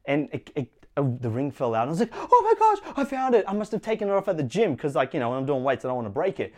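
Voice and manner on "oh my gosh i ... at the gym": excited. Retold or imitated. Finding the lost wedding ring.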